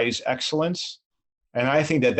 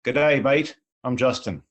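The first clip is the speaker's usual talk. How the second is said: Australian accent. Shown as a demonstration. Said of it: "in fluent Australian".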